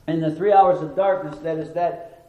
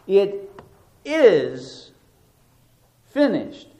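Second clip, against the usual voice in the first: "is" slowed and louder between pauses; stress on IS; 3 semitones higher, 4 dB louder, much slower than usual. Shown as a demonstration. Preacher stressing the declarative word, stress on IS. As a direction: declare "is" with weight. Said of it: "Emphasis on the middle word".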